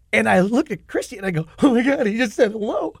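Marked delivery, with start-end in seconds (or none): 1.6-2.9 higher, hushed starstruck disbelief; starstruck gasp. Retold or imitated. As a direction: gush to your girlfriend like a fan. Starstruck aside to Christy.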